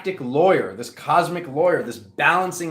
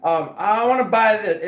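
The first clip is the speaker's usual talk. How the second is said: excited quote; 5 semitones higher than usual. Retold or imitated. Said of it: "For somebody, it could be like".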